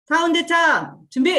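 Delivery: rally the group for a chant; calling out a cue. Real, not acted. Cueing a group slogan chant. (구호 제창을 준비시키는 힘찬 외침)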